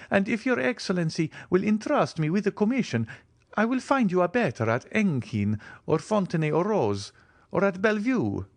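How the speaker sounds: keen to step in, lightly voiced; eager. A narrator's reading. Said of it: "cried Bertuccio, uh, eagerly".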